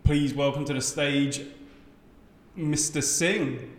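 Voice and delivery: drawn-out formal stage introduction, names spaced apart; a comic recalling the compère who dodged his first name, slow and stately; slow compère announcement. Retold or imitated. Compère announcing the comic, slow and formal. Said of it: "they were like".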